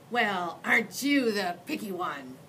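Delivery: haughty, offended remark; sniffy. Acted. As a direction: sniff at him disdainfully. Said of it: "she sniffed".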